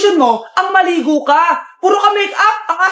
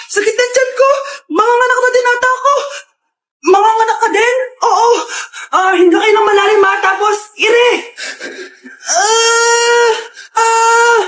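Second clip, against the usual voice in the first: labor pains; 3 semitones higher, slower than usual. Acted. Two women in labor.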